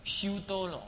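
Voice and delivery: 修多罗 drawn out syllable by syllable; slow syllables. Shown as a demonstration. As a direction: spell out 修多罗 very slowly. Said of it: "这个修". (一字一字慢读修多罗)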